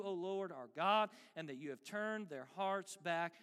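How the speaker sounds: low, measured plea to God; earnest prayer. Acted. Elijah prays near the altar to be answered, earnestly restrained. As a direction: pray simply, with restraint.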